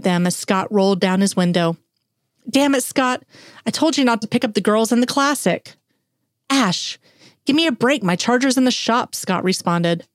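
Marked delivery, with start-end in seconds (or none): 2.5-5.8 raised, higher-pitched rebuke; angry scolding. Acted. Ash scolds Scott for using the classic car, angry. 6.5-9.1 higher, whiny protest; exasperated pleading. Acted. Scott pleads with his friend Ash, exasperated.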